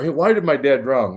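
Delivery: ordinary talk, nothing marked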